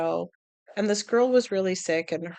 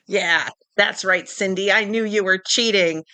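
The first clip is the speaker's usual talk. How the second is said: mock accusation; 5 dB louder than usual. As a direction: confront Cindy like a soap villain. Mock soap confrontation.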